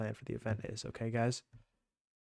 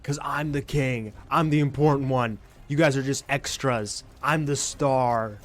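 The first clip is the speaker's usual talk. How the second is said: mock grandiose; 3 semitones higher, 5 dB louder, slower than usual. Boasting as the movie hero.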